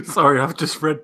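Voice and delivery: real giggles breaking into the words; laughing apology. Real, not acted. Host interrupts over a funny comment, laughing.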